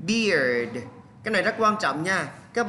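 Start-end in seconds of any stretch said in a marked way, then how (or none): 0.1-0.8 "Beard" said slowly as one long, falling syllable; pronunciation demo. Shown as a demonstration. Teacher shows students how it is pronounced, careful demo. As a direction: model the word "Beard" clearly for learners. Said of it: "Đây là cách phát âm".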